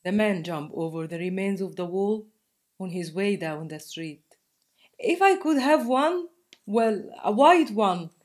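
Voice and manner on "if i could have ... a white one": lightly voiced young girl, hopeful and a touch shy; a hint of a child daring to ask; hopeful little girl. A narrator's reading. Girl asking the man for a rabbit, lightly voiced hopeful child.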